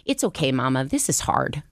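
barely voiced son; nearly plain son reassuring mom; son's voice. Son Alec comforting his mom, almost plain voice. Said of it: "And Alec goes".

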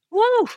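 high "woo" to hold back emotion; emotional exhale. Real, not acted. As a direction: blow out a high breath, fighting to keep composure. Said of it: "I'm gonna get emotional".

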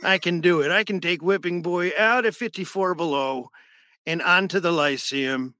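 halting old-man impression; Wilford Brimley. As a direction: boast of connections like a folksy investor. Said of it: "it's an amazing impression".

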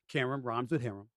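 "Qerim" said to rhyme with "harem"; pronunciation reminder. Shown as a demonstration. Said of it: "I butcher her name".

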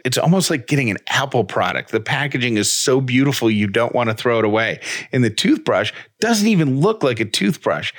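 upbeat sponsor read, lively and bright. Acted. Podcast host reading a toothbrush ad to listeners, upbeat ad read. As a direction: sell the toothbrush like a friend's tip.

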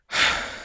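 long exasperated exhale; weary breath out; frustrated sigh. Real, not acted. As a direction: sigh in helpless defeat. Frustrated at the dog not stopping.

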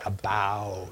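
"About" said carefully with no Canadian vowel. Shown as a demonstration. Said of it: "looked in the mirror every morning and said".

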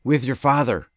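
vasthoudend betogen, met nadruk; firm and defensive. Retold or imitated. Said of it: "And I say".

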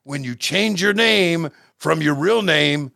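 a half-hearted Ivan Koloff doing a mock promo; a hint of the old Russian Bear cutting a promo; Ivan Koloff impression. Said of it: "you gotta tell me what you think, uh, Ole Ivan's thinking".

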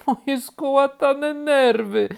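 high, loud, drawn-out wail; frazzled cry. A narrator's reading. Startled rabbit lands again, crying out high. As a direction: cry out with frayed nerves. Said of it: "zawołał".

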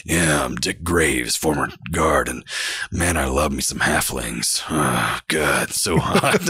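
low, slow, leering voice; creepy old guard. Retold or imitated. Player voicing the creepy old guard who loves halflings, low and slow. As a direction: drop low and drawl like a creep. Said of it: "I was just like".

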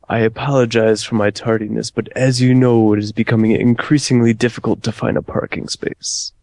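Matrix agent. Retold or imitated. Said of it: "went as an agent from the Matrix".

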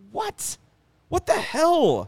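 exasperated disbelief. Retold or imitated. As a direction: squeal it like you can't believe your eyes. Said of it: "and you're just like".

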